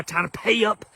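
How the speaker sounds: whispered threat from the uncle; menacing whisper. Retold or imitated. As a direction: lean in and whisper the debt. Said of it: "Quick to throw up shit that they did for you".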